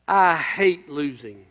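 a low, slow hint of a sulky whine; whining driver. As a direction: lightly imitate a sore loser grumbling. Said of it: "this is what he said when he was whining".

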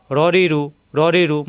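"র রি রু" with a full, heavy r; thick ra syllables. Shown as a demonstration. Teacher drilling students, "র রি রু" heavy. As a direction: say "র রি রু" thickly, rounding the first vowel. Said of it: "মোটা করে উচ্চারণ".

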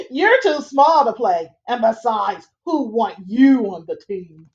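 lightly voiced teasing brothers, laughing; a hint of big brothers jeering; mocking older brothers. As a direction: sneer it with a laugh. Brothers mock Sidney.

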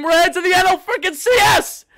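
high, rising victory yell; exultant shout. Real, not acted. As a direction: shout it in disbelieving joy. Exulting over reaching the championship series.

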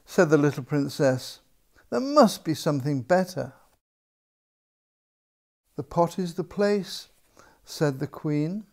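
measured storybook reading with long pauses; story narration. A narrator's reading. Author reads a potty story to children, storybook narration. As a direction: read it to small children, leaving room between phrases. Reads own picture book aloud.

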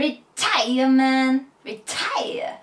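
stretched, slow twangy teacher drawl; Kinpachi-style twang. Shown as a demonstration. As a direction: do it like Kinpachi-sensei. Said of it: "来ました、金八さん". (金八先生風に伸ばして)

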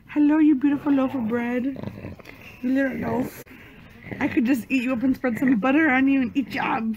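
fast cooing; doting pet talk. Real, not acted. Owner gushes fast at her dog. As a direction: gush over the dog.

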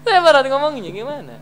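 high, loud voice breaking into laughter; laughing exclamation. Real, not acted. Preacher struggles to explain his awkward example, laughing exclamation.

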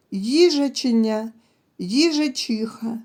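"їжаченя", "їжачиха" drawn out slowly to show the starting sounds; slow sound demo. Shown as a demonstration. Teacher shows the first sound to pupils, slow and clear. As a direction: stretch "їжаченя" and "їжачиха" so kids hear the opening sound. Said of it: "На початку цих слів".

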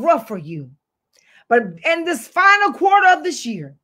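rising and falling pulpit declaration; fervent sermon voice; preaching. Acted. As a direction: preach it, lean on the key words.

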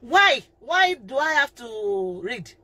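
put-on drawn-out child's "why" complaint; mock child's slow protest. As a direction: question it like a reluctant kid, stretching the words. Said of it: "the children will tell you".

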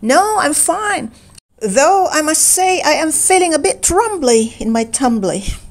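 gentle dozy Pooh Bear. A narrator's reading. Narrator voicing Pooh.

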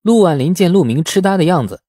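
ordinary delivery, nothing marked

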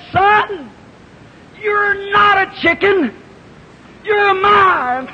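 a mother eagle screaming down to her lost son, a mock call. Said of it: "she screamed back and she said".

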